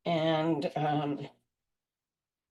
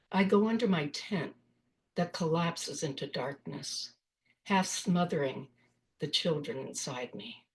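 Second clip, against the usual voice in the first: measured poetry reading, pausing after each phrase; poem reading. Acted. Poet reads her poem Thoughts and Prayers to an audience, measured recital. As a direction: read it line by line, with space between phrases.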